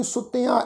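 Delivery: ਸੁੱਤਿਆਂ with a nasalised final aa; nasal ending. Shown as a demonstration. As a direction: nasalise the last vowel of ਸੁੱਤਿਆਂ. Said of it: "ਬਿੰਦੀ ਲਗਾ ਕੇ ਨਾਸਿਕ". (ਸੁੱਤਿਆਂ ਦਾ ਨਾਸਿਕ ਉਚਾਰਨ)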